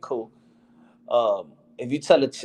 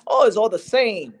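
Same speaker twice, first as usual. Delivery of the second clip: higher, airy, brushing it off; dismissive dude; 7 semitones higher than usual. Retold or imitated. Imitating the dude who shrugs off the Vietnamese friend, higher and dismissive. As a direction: toss it off like it doesn't matter. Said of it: "dude brushing off the correction".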